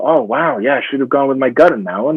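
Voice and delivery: a hint of someone finally realizing; realizing actor. Actor imitates himself realizing later in career, rising mock eureka. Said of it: "you know".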